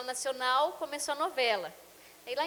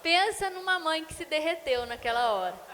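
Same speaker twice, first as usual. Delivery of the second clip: ordinary talk, nothing marked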